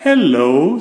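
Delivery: loud, friendly hello; smiling. Acted. Mister Bump arriving at the gate, smiling hello. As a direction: greet them with a smile. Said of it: "smiled Mister Bump".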